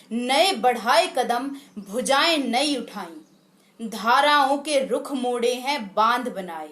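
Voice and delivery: measured, declaimed Hindi verse; poem recitation. Acted. Presenter recites a patriotic poem to listeners, measured declamation. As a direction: recite with lilting, deliberate line endings.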